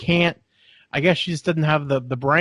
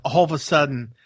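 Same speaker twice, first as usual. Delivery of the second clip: ordinary delivery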